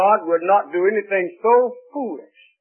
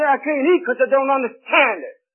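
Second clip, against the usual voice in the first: mock bewildered guest; 8 semitones higher than usual. Guest's final excuse.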